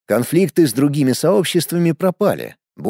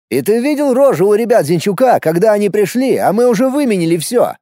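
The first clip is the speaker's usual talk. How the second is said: excited; 6 semitones higher, 3 dB louder than usual. Acted. Gloating about rivals.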